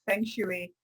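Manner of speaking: "Feng shui" said as "fong shuh-ee", French way; French-style pronunciation. Shown as a demonstration. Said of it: "it may be more the French way".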